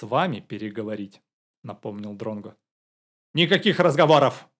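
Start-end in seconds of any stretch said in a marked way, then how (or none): 3.3-4.5 sharp angry shout, louder. A narrator's reading. Woman ordering guests to stop talking, angry shout. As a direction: snap it out at the uninvited guests, loud. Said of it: "крикнула она".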